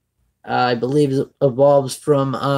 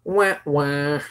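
sad trombone "wah, wah"; 5 dB quieter than usual. Pretend. Mock letdown after the card pull.

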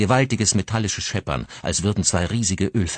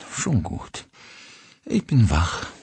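growled; 3 semitones higher, slower than usual. Acted. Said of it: "knurrte Clio".

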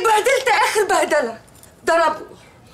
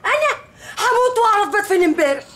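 crying; 4 semitones higher than usual. Acted. Wife sobs about husband.

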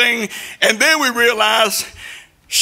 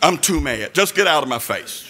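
low, heavy voice of a furious mother; angry mama; 8 semitones lower than usual. Retold or imitated. Mother ordering her son out of her face, low and furious. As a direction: growl it down like a mad mama. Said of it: "She said".

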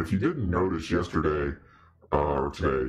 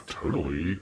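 Valley Dude; 2 semitones higher than usual. Acted. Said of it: "You sound like the Valley Dude version of Satan".

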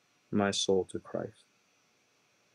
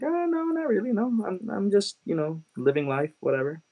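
much higher, airy brush-off that fades; dismissive denial; 10 semitones higher than usual. Retold or imitated. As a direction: wave it away casually. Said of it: "I'm like".

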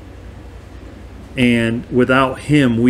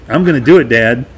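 imitated willing son, voice raised; eager promise; 6 dB louder, faster than usual. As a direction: promise Dad emphatically, playing the son. Second son promises his father.

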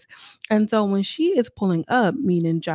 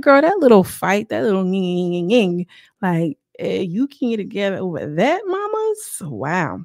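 mocking disbelief; 4 dB louder than usual. Mocking reaction.

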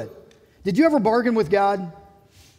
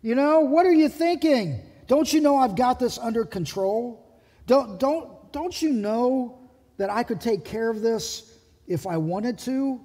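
higher, slowed, scolding disbelief; exasperated rebuke; 4 semitones higher than usual. Retold or imitated. Jesus chides Peter for swinging the sword, exasperated rebuke. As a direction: scold Peter like a let-down friend. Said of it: "that tone of voice too".

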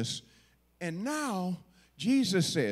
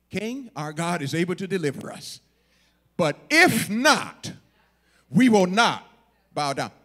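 loud, emphatic refusal building after a measured start; defiant; 8 dB louder than usual. Acted. Three boys refusing the king's order to bow, defiant. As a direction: stand your ground and punch "not". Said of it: "They're defiant".

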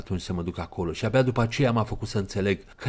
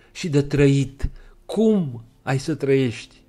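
louder, higher exclamation; exclaiming; 7 semitones higher, 7 dB louder, slower than usual. Acted. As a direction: cry out in alarm. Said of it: "exclamă ea". (exclamație tare, mai sus)

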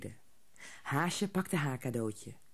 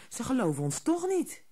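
put-on higher little girl voice; resigned child; 9 semitones higher than usual. A narrator's reading. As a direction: shrug it off as a child. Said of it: "zei Haasje". (hoger kinderstemmetje)

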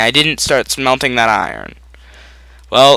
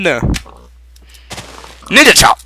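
high, loud, very slow ninja chop; hammed-up martial arts shout; drawn-out ninja battle cry; 8 semitones higher, 6 dB louder, much slower than usual. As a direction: stretch the Ninja chop into a mock war cry. Attacking the pig.

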